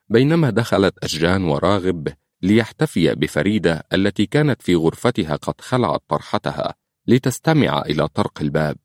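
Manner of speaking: ordinary talk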